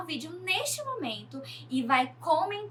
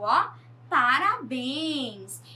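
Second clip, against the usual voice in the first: congratulations; 4 dB louder, much slower than usual. Real, not acted. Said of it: "congratulating students who got it right".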